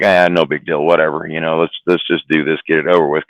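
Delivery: cocky, unbothered brush-off; smart-ass dismissive. Retold or imitated. Young driver mouthing off to his driving teacher, smart-ass. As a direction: brush it off, slightly low and offhand. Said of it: "my smart ass".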